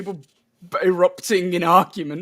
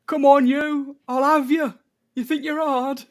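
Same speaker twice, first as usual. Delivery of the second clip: higher, louder mock hard man; tough guy voice; 7 semitones higher, 3 dB louder than usual. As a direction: taunt like a pub brawler. Voicing a brawler in the film.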